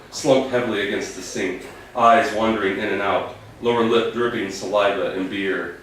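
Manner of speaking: measured narration, phrases easing down at the ends; literary story reading. A narrator's reading. Author reading his sad story to an audience, measured narration. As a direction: read it as composed literary prose. Reads own short story aloud.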